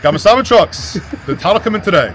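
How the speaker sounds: high, loud put-on Australian accent; playful mock Australian accent. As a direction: ham up the Australian. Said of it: "I think I got the Australians down".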